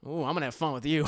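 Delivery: quiet, laughing sinister purr; a menacing chuckling aside; sinister villain. Retold or imitated. Dio sizing up JoJo, quiet menacing chuckle.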